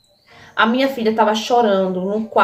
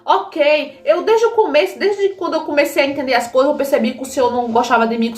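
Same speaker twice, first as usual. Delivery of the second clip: retold reproach, pitch climbing to a peak; mildly acted outrage at a parent; indignant confrontation; 3 semitones higher than usual. Daughter confronts father over hungry child, indignant.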